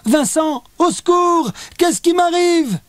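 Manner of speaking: high, loud call for help; panicked cry. A narrator's reading. Léa calling her brother in panic, high and loud. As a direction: cry out in terror.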